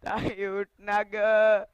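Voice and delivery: put-on crying boy begging his sister; drawn-out, sobbing plea to wake up; tearful pleading. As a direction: plead through tears. Boy begs dead sister to wake.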